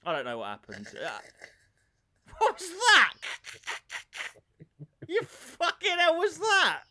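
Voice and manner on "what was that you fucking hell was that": loud, high shocked outburst; louder, much higher astonished cry at his co-host; startled. Real, not acted. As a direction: blurt it out in real surprise. Reacts to a strange laugh.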